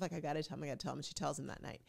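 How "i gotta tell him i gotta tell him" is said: pensive. Retold or imitated.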